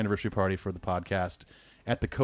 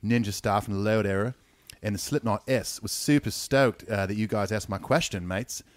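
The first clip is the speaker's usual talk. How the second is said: put-on light Australian accent through the email; Aussie accent. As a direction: read it like a mate from Perth, lightly. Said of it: "it must be in Ethan's Aussie accent".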